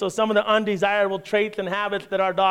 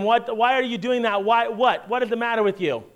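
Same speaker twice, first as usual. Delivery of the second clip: mock scolding; 3 semitones higher than usual. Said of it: "when you say to them".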